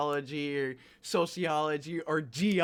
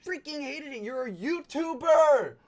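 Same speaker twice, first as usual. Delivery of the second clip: indignant; 6 semitones higher, 3 dB louder than usual. Real, not acted. Scolding the YouTuber.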